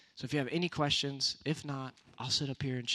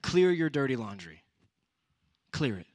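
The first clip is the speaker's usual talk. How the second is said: louder preaching command; louder emphatic command; emphatic exhortation; 3 semitones higher, 7 dB louder than usual. Real, not acted. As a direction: proclaim it loud to the youth. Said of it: "these three things".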